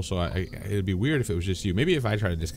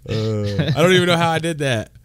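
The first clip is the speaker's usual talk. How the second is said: high-pitched voice; 9 semitones higher, 7 dB louder than usual. Real, not acted. Laughing apology, voice filter on.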